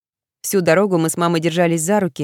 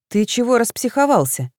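taken aback; 6 semitones higher than usual. A narrator's reading. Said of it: "опешила я".

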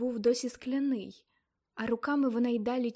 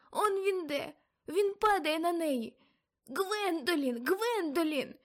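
very high, loud panicked cries; terrified screaming; 8 semitones higher, 3 dB louder than usual. Acted. Aunt in trance fearing for Gwendolyn, terrified cries. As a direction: scream in terror for the girl. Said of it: "у її голосі зазвучав страх".

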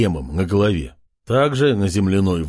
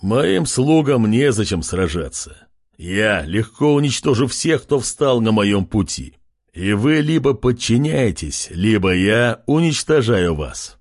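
pompous menace. Acted. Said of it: "выглядеть как можно пафоснее".

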